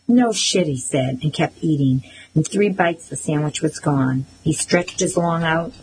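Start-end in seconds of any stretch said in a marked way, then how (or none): 0.1-0.7 sneering. A narrator's reading. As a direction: toss it off with contempt. Brother mocking reply.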